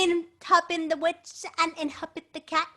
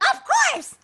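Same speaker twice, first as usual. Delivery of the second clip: witch voice; 6 dB louder than usual. Acted. The witch answers kindly.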